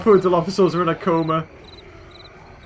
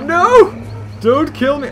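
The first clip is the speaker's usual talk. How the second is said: higher, louder mock begging; mock dinosaur plea; 6 semitones higher, 4 dB louder, slower than usual. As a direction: voice the scared dinosaur pleading. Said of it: "It's on all fours like".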